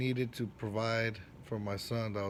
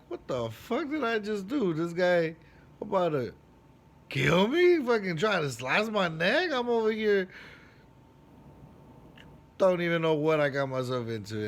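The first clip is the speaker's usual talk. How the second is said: frantic, rising alarm, louder and higher; panicked; 6 semitones higher, 5 dB louder than usual. Retold or imitated. Recalling the barber's blade at his neck, panicked and loud. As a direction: blurt it out in a retold panic.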